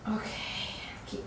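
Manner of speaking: whispered okay, out of breath; breathy whisper. Real, not acted. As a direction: breathe the word out softly. Catching breath mid-exercise.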